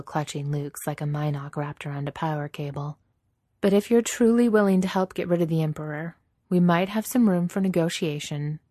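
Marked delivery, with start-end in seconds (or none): 3.6-8.6 higher woman's character voice; Leia, guardedly offering. Acted. Leia offering Vader room for negotiation, guarded. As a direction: make a firm, guarded offer, pitched up.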